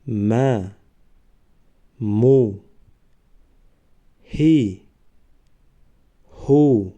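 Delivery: reading syllables aloud for the class to repeat; letters with vowel marks. Shown as a demonstration. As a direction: drill each vowelled letter slowly and distinctly, pausing between.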